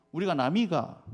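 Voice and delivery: clumsy Gyeongsang dialect slogan. Retold or imitated. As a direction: try the Gyeongsang accent, not quite right. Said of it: "경상도 지역에서 뭐라고 외치는 줄". (서투른 경상도 사투리)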